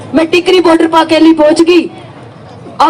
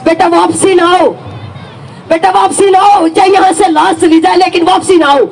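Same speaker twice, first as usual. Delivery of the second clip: retold rallying cry, building to a shout on the last line; building call to stand firm. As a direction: urge the retreating men to turn back. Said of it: "मैंने रुक के मारे".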